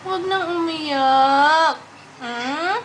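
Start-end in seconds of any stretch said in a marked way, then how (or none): 0.1-1.8 slow soothing hush. Real, not acted. Soothing a crying baby.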